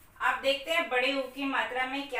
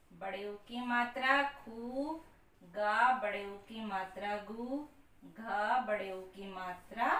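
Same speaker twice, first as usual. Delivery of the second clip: slow spelled out; 3 semitones lower, 5 dB quieter than usual. Shown as a demonstration. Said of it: "देर तक बोलकर किया जाता".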